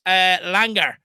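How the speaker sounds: Langer said LANG-er with a hard g; pronounced Langer. Shown as a demonstration. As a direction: say Langer, LANG-er, stress on the first part. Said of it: "uh, pronounced".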